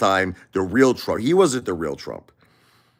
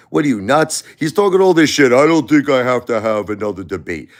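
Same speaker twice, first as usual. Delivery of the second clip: mock weakling; 2 semitones higher than usual. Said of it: "You know who talks like that?".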